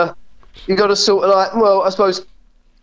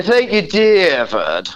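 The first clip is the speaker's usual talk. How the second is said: slow, drawn-out Lloyd Grossman voice with the tongue held down; Lloyd Grossman impression; slower than usual. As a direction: draw out every word slowly like Lloyd Grossman. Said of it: "if you wanna do a Lloyd Grossman".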